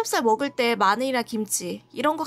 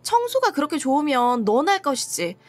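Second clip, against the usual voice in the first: heated comeback, mildly acted; retold angry retort. Spouse retorting to husband who questioned their sanity, indignant. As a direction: throw the accusation back at them, as retold. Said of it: "저도 진짜 꼭지가 돌아버렸죠".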